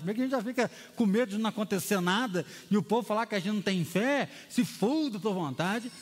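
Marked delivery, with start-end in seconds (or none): 4.5-5.9 slow, hesitant prayer line; mock timid prayer. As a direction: say it as a doubtful pray-er. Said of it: "Presbiteriano já tem oração, mas calma". (oração hesitante e lenta)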